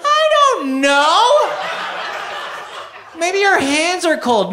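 high, slow exasperated whine. Acted. Vet answers owner's silly question, high exasperated drawl. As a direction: stretch it out in disbelief.

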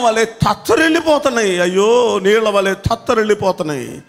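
high, urgent preacher's cry; impassioned preaching. Acted. Preacher warning the church about failing knees, fervent.

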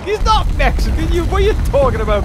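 high-pitched, exasperated imitation; indignant mock complaint; mock indignant commenter. Acts out indignant viewer comments.

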